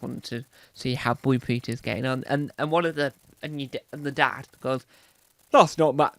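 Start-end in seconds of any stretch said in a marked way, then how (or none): 5.5-6.1 loud mock dad voice; father impression. Dad objecting to the kids' programme, loud father impression. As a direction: play a dad's loud complaint. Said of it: "this is an impression of a father".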